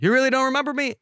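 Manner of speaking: high mock voice of a pushy stranger; mock pushy bar regular; imitating the bar guy. Guy at bar confronting date.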